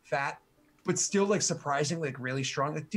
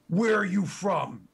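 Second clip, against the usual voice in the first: orc chief asking; 4 semitones higher, 4 dB louder, slower than usual. Acted. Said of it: "he's like".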